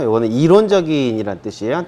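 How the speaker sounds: ordinary talk, nothing marked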